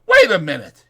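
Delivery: loud, sharp command; shout. Acted. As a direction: stop him with a shout. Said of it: "he shouted".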